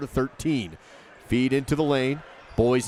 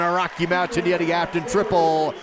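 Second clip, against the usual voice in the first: excited call; 3 semitones higher than usual. Real, not acted. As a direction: call the basket with rising excitement. Made three-pointer, call rises.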